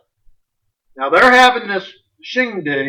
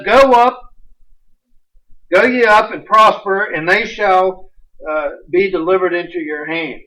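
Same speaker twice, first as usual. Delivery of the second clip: louder mock blessing, dripping with irony; sarcastic; 4 dB louder than usual. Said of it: "even Ahab knows that he's being sarcastic".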